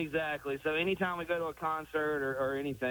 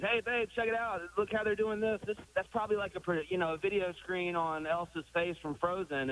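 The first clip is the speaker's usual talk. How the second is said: eager, pointing things out; higher, keen tour-guide chatter; excited; 4 semitones higher than usual. Retold or imitated. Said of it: "it was like".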